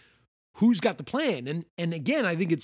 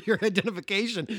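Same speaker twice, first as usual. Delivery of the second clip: higher, official sentry voice; sentry demanding papers; 5 semitones higher, much faster than usual. Retold or imitated. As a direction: demand the papers like a strict guard. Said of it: "He's like".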